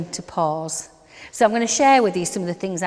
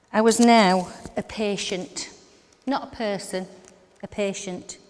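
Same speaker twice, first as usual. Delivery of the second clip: "now" stretched with falling tune; stress on now. Shown as a demonstration. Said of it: "People talk to patients differently".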